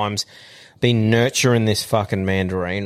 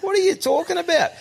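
mock outrage. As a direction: act stunned and offended, pitch way up. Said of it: "And I'm like".

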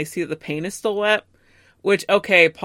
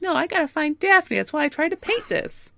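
higher, pleading and urgent; a higher, anxious plea; mock desperate Matt; 10 semitones higher than usual. Matt pleading with Peter, higher anxious voice. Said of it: "And Matt's like".

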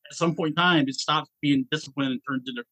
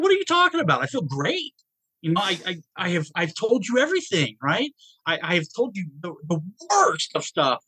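brushing off the therapist, sure he's fine; incredulous protest; 5 semitones higher than usual. Retold or imitated. Man retelling how he told his therapist he felt great, incredulous protest. Retold disbelief at therapist's warning.

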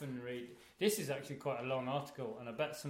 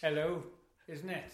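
put-on Welsh accent; 3 semitones higher, 4 dB louder than usual. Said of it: "start by saying something really Welsh".

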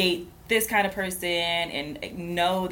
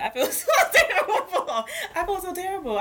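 mock guilt; 11 semitones higher than usual. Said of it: "I'm beating myself up inside".

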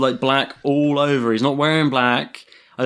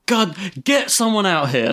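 higher-pitched, disbelieving plea; incredulous; 5 semitones higher than usual. Retold or imitated. Imitating the emergency caller for co-host, incredulous. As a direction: mimic an incredulous caller demanding help. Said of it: "he's like, incredulous".

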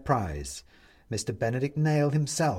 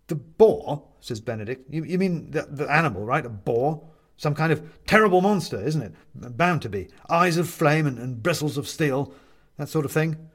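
nervous captive; 2 semitones higher, 3 dB louder than usual. Acted.

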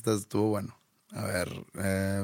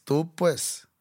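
Sonora accent; 7 semitones higher than usual. Shown as a demonstration. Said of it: "así hablan los de Sonora".

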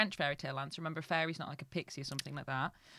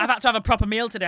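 mock whiny complaint; 4 semitones higher, 15 dB louder, much faster than usual. Mocking partner's whiny complaint.

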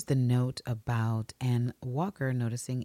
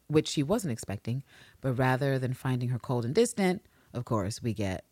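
ordinary talk, nothing marked

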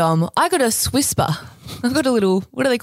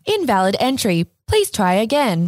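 robot voice. Acted. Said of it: "can I do a robot voice?".

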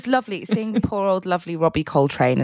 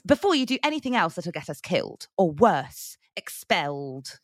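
imitating Hermione; 4 dB quieter than usual. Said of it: "Do you remember Hermione doing that".

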